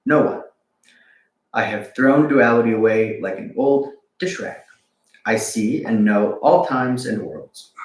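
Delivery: slow, measured poem recital; poem reading. Acted. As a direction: read it slowly like a sacred verse. Reads Rumi poem.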